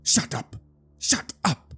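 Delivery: high-pitched yell, held back in volume; restrained narrator's yell; yelled command. A narrator's reading. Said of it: "before he yells".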